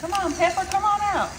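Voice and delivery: high, wheedling plea; high-pitched cajoling; playful coaxing. Real, not acted. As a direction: coax it out like a shy pet. Coaxing a stuck pepper grinder.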